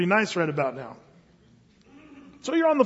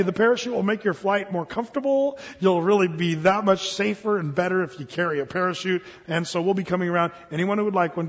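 smiling attendant sales pitch; faster than usual. Acted. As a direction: sell the parachutes with a smile. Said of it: "puts a smile on her face, very calm".

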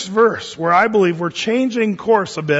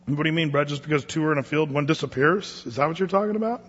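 doubting listener; 3 semitones lower, 6 dB quieter, faster than usual. Acted. Voicing a doubting listener's question.

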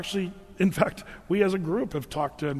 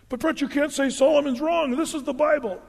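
mock objector; 9 semitones higher, 4 dB louder than usual. Imagined objector protests to pastor.

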